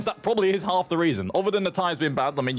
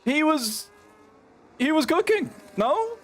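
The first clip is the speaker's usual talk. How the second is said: high, excited race call; excited commentary; 10 semitones higher than usual. Real, not acted. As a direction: call the crash with rising hype.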